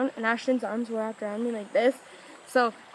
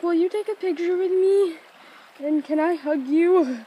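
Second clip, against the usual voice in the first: retold eager request; 5 semitones higher, 4 dB louder, slower than usual. Retells pleading with Callum.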